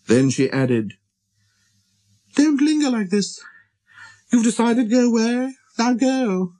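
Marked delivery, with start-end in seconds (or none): 2.3-6.5 much higher voice, briskly dismissing him; proud flower hiding tears. Acted. Flower sending the prince away so he won't see tears, high and proud. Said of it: "did not want him to see her crying".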